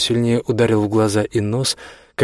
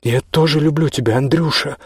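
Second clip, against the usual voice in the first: moaning; 4 semitones higher than usual. Acted. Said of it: "застонала на том конце".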